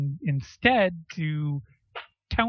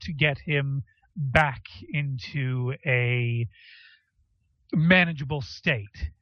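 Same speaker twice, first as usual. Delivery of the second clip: measured, emphatic authority figure losing patience; officious therapy leader. Acted. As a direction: lay it out firmly in deliberate phrases. Plays Wormwood dismissing the group.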